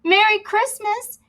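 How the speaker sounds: high, bright squeaky mouse greeting; cheery mouse. Acted. Mouse greeting the captain, high cheery call. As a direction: sing it out like a tiny mouse. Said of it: "cried the mouse".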